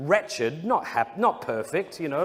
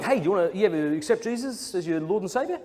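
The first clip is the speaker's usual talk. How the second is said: fast eager preachy ask; pushy evangelist; 4 semitones higher, faster than usual. Retold or imitated. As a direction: push Jesus on a stranger, quickly. Evangelist pushing Jesus on him.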